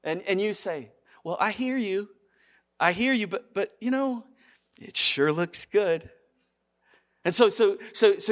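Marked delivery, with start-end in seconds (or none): 1.2-6.1 tag. Acted. Person hedging against temptation.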